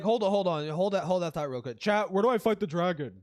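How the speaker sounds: loud mock streamer asking chat; hammed-up gamer calling out to chat; imitating a streamer. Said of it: "He's like".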